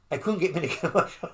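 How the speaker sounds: quick, breaking into a laugh mid-line. Real, not acted. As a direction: laugh through the punchline. Laughing at his own size.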